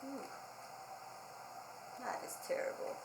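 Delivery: hushed mock-shocked whisper; a soft shocked aside to the kids. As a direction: whisper it like a scandal.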